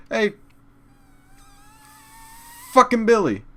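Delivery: high, loud mocking friend voice; mocking the fat friend. Comedian mocks his girlfriend's fat friend, high and loud.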